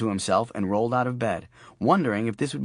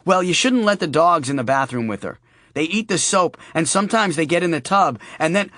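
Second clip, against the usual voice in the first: a lightly raised fussy sister voice; lightly voiced sister; 7 semitones higher, 5 dB louder than usual. Sister on the phone fussing over the dogs, lightly voiced. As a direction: fuss over the dogs and the soap. Jane's voice.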